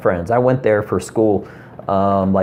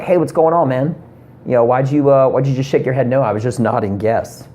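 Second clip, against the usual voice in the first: angry retold guy; 3 semitones higher than usual. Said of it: "Guy just got so angry".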